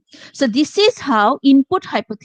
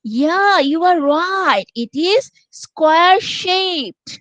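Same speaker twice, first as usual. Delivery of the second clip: higher, melodic praise with stretched vowels; encouraging teacher tone, higher; 4 semitones higher, much slower than usual. Shown as a demonstration. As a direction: coax the pupil, sing the praise a little. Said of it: "আমি কয়টা কাজ করেছি এখানে দেখো".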